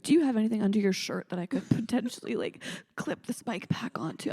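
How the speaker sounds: mock awkward roundabout question; scared to ask. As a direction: imitate a nervous tech fumbling the ask. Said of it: "so scared to ask you that".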